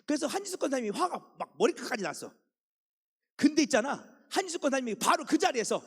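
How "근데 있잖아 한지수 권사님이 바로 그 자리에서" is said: 1 rising dramatic. A narrator's reading. Building to angry wife scene.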